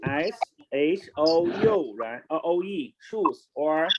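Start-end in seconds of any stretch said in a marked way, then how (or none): 0.0-1.9 spelled letter by letter. Shown as a demonstration. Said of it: "Shoes, right?".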